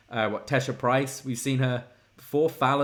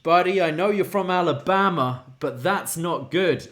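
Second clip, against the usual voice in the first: higher, louder startled buddy; mimicking Briggs; 4 semitones higher, 3 dB louder than usual. Host voicing Briggs warning Jensen, higher and louder. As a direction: play the shocked friend setting him straight. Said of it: "And Briggs is like".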